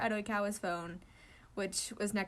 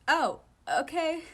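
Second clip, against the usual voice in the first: hesitant; 8 semitones higher, 9 dB louder, much slower than usual. Acted. Kindaichi unsure reply.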